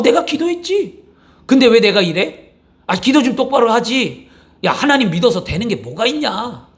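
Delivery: imitating a grumbling husband scolding his wife, pitch jumping up on one line; mock husband blaming wife. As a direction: play the fed-up husband nagging his wife, lightly acted. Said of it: "뭐라고 원망하냐면 이렇게 얘기합니다".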